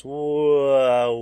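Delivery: a loud, high, startled whoa; surprised gasp of a word. Retold or imitated. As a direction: blurt it out in sudden alarm. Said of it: "And then Peter goes".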